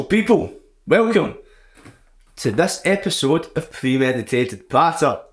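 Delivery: upbeat radio host intro; bright DJ welcome, pitch up on welcome. Shown as a demonstration. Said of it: "so I sound more like a radio host".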